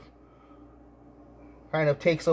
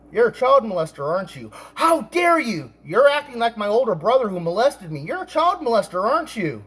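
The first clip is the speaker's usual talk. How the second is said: heated accusing re-enactment, pitch jumping high; retold angry accusation; 4 semitones higher than usual. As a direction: fling it as an accusation, mildly raised voice. Acted accusation in shouting match.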